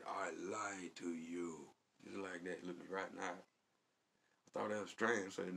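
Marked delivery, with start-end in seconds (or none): 0.1-1.7 flat confession. Retold or imitated. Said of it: "He said".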